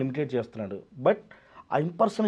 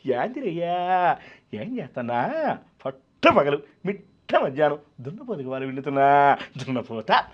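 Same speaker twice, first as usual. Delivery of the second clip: very slow drawn-out rustic villain drawl; comic villain parody; slower than usual. Retold or imitated. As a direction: stretch the opening words lazily for laughs. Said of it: "ఇలా అంటే నవ్వు వస్తా".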